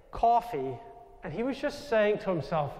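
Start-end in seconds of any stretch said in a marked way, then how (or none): 0.1-0.8 coffee with a broad New York aw; New York accent on coffee. Retold or imitated. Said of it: "with my New York accent".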